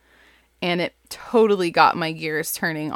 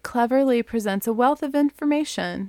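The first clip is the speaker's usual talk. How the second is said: mock dull back-cover read, faster at the end; boring blurb read; 4 semitones higher than usual. Shown as a demonstration. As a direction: read it like a dreary book jacket. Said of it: "the most boring possible way to tell you".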